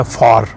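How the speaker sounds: फार with a long open aa; long Swedish a. Shown as a demonstration. Teacher demonstrates Swedish far to beginners, long vowel. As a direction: stretch the vowel in फार like father. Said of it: "तो long आ जो है".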